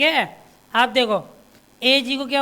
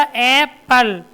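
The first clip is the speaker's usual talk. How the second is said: slow demo word; 3 dB louder, much slower than usual. Shown as a demonstration. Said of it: "क्या बोला?".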